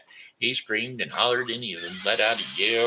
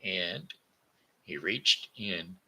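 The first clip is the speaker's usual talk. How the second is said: lively bedtime storytelling; story reading; 3 semitones lower than usual. Acted. A grandpa reading a moral story to children. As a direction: tell it like reading to kids.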